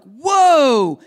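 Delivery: loud, high startled cry; the crowd sees Moses's glowing face and jumps back, startled; startled whoa. Retold or imitated. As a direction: gasp it out like frightened onlookers. People see glowing face, terrified.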